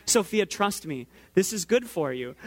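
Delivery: even, measured parental reasoning. Retold or imitated. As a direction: reason with a small child, voice kept calm. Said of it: "try to rationalize with a".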